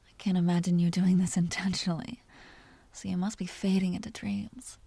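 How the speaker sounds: a vampire's hushed, teasing whisper close to the ear; seductive whisper. Acted. Vampire whispering to the hunter she wants to bite, seductive whisper.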